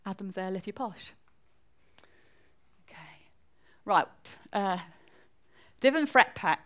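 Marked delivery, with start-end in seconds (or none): 5.8-6.6 attempted Geordie accent, pitched up. Shown as a demonstration. Speaker showing a congregation regional sayings, attempted Geordie accent. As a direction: have a go at Geordie, a bit higher and firmer. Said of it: "It's Geordie".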